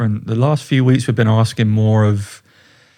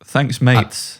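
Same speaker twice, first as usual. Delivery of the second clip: Scottish thanks mates. Shown as a demonstration. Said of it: "That's what I'll say".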